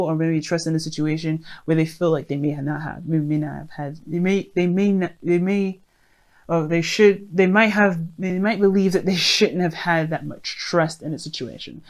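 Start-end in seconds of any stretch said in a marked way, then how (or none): 3.1-11.8 stumbling over words, repeating may; stammering, restarting the phrase; stuttering. Real, not acted. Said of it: "I don't know why I'm stuttering so much".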